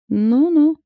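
high, loud mocking hmph of doubt; sceptical scoff. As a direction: scoff at her excuse, unconvinced. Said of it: "хмыкнув". (скептическое хмыканье)

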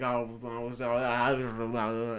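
low, soft mumbled babble; talking in tongues. Retold or imitated. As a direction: imitate incoherent babbling under your breath. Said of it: "talking in tongues or something".

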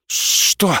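breathless startled whisper; stunned mumble. A narrator's reading. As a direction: caught off guard, barely voiced. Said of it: "ошарашенно пробормотал он".

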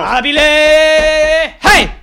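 a slow, loud, unhinged howl; drawn-out mad shout. Acted. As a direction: stretch it into a long, loud wail. Madman shouting.

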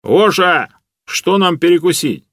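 loud, high command to the AI. A narrator's reading. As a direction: speak up so the machine hears. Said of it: "громко произнёс". (громко и чётко, обращаясь к Гоше)

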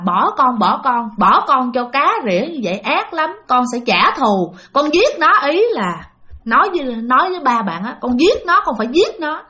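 imitated angry spirit, rising in pitch; vengeful threat. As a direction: voice a wronged spirit swearing to kill. Possessed son swears revenge.

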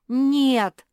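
the pug insisting she has no gingerbread; loud objection. A narrator's reading. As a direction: deny it hard. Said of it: "возразила чёрная мопсиха".

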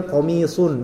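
"komisun" with lips rounded on "sun"; rounded sod with dhammah. Shown as a demonstration. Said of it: "monyong bibir ketika, eh, dhammah". ("komisun" dengan bibir monyong pada "sun")

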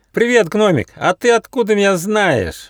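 high, loud astonished greeting; surprised. A narrator's reading. Shaggy little man surprised the gnome knows him. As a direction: squeak it out in surprise. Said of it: "удивился лохматый человечек".

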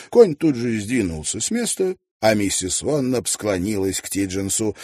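usual speaking voice

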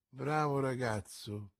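soft, low approving murmur. A narrator's reading. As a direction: murmur it to yourself, pleased. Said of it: "mormorò il re". (mormorio sommesso e basso)

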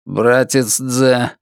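slow robotic monotone. Acted. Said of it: "голосом робота произнёс".

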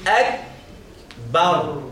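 "أكبر" drawn out slowly with thin ك and ب; light kaf and ba. Shown as a demonstration. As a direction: model "أكبر" in two slow, light syllables. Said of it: "والباء مرققة".

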